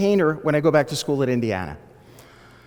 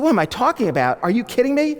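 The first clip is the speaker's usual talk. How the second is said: mildly raised, incredulous indignation; mock outraged scream; 3 semitones higher than usual. Fake irate caller to a reporter, incredulous mock outrage. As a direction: act out an affronted caller. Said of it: "proceeded to scream at him".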